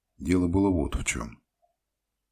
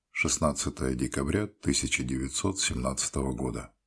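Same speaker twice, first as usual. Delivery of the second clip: usual speaking voice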